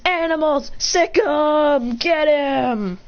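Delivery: attack command. Acted. Hero ordering animals onto foe, calling command. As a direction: set the beasts on the enemy.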